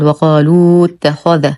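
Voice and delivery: وقالوا اتخذ with long "luu" before the doubled ت; wrongly lengthened waw. Shown as a demonstration. Teacher showing a mistake, long waw kept in وقالوا اتخذ. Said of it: "ومن الأخطاء الشائعة أن يقال".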